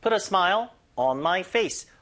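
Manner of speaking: slow, deliberate drill read; slow model sentence. Shown as a demonstration. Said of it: "그래서". (천천히 시범 읽기)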